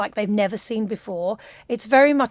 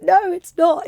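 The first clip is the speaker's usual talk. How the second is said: indignant retort; 9 semitones higher, 8 dB louder than usual. Retold or imitated. Retort to critics of the accent.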